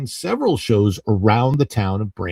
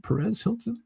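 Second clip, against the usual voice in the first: higher, softer surprised question; surprised echo; 8 semitones higher, 6 dB quieter than usual. Real, not acted. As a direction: echo the name in disbelief. Spotting a viewer in chat.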